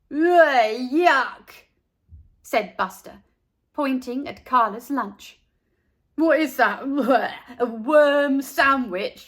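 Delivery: loud, slow grossed-out groan; disgusted. A narrator's reading. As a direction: recoil from the lunch. Buster grossed out.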